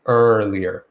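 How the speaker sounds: "Earlier" with a drawn-out r-coloured first er; pronunciation demo. Shown as a demonstration. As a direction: model "Earlier" as ER-lee-er, tongue pulled back. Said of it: "that's how you make that sound".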